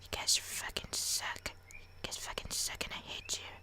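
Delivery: soft, hammed-up whispered rant; hushed, bitter mock cursing; resentful whisper. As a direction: whisper insults under your breath. Whispered resentful aside to parents.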